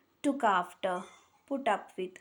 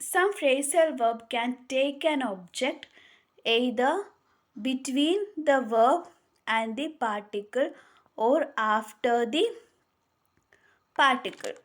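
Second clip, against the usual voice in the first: very slow, word by word, for note-taking; slow dictation; much slower than usual. Shown as a demonstration. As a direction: spell the rule out slowly so students can write it. Dictating the rule slowly.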